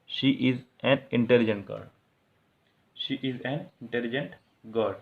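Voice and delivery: very slow, stretched word by word; slow dictation. Shown as a demonstration. Teacher reading the corrected sentence to students, very slow. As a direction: lay out the right sentence slowly. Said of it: "reading out the corrected sentence".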